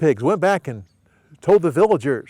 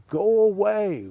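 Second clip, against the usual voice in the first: demon-possessed man; 8 semitones higher than usual. Shown as a demonstration. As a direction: push them away in terror. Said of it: "yells and screams".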